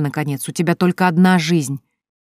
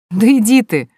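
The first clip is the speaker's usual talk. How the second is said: higher, louder laughing dismissal; laughing brush-off; 6 semitones higher, 7 dB louder than usual. A narrator's reading. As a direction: wave her off with a laugh. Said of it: "засмеялась Соня".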